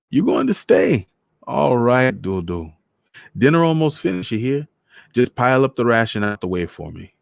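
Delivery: put-on high Trinidadian old man; teasing old man from back home; Trinidad accent. Voices Mister Morris.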